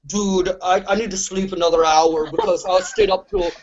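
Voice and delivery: lightly voiced tired producer friend, a hint of Lorne Michaels; mock-whiny retelling of a friend who stayed up all night; Jesse Cannon impression. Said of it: "Jesse Cannon impression sounds like Lorne Michaels".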